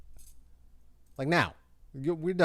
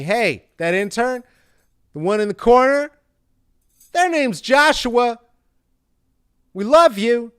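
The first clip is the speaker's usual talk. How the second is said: loud shout-out; 7 semitones higher, 9 dB louder than usual. Real, not acted.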